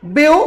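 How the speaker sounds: first syllable "ब्यू" on its own, then stop; split syllable. Shown as a demonstration. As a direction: cut "ब्यू" off as a separate beat. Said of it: "single syllable दिख रहा है कि double syllable". ("ब्यू" अलग syllable की तरह)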